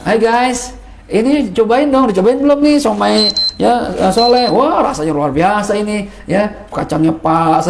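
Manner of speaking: lightly hammed-up influencer pitch; teacher imitating an influencer tasting somai, mildly hammed; mock food endorser. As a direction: play a hint of a chirpy food vlogger. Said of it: "terus di shoot gitu sama dia".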